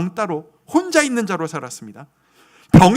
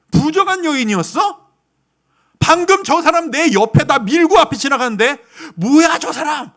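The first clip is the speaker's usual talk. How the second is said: nieuwsgierig gemompel; 6 semitones higher, 5 dB louder than usual. Retold or imitated. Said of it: "수군수군 웅성거리고 소리 지르는".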